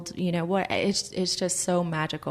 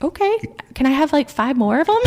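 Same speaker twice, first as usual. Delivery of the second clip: excited; 9 semitones higher, 7 dB louder than usual. Retold or imitated. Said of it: "And I was like".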